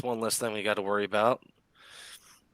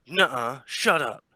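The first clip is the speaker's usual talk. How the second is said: excited disbelief; 3 semitones higher, 4 dB louder than usual. Acted. Actor hearing good news.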